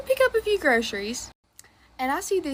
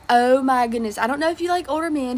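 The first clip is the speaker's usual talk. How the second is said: excited granny; 6 dB louder than usual. Retold or imitated. Old lady excited.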